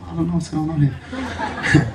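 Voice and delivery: a confused onlooker who can't follow the signing, laughing; baffled bystander, laughing. Retold or imitated. Onlooker between two people, laughing and baffled. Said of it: "The other would be like".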